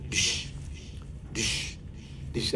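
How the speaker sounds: soft, even "dish, dish, dish" like a press machine thudding; machine sound. Retold or imitated. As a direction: mimic the machine's steady beat quietly. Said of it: "that brake machine used to go".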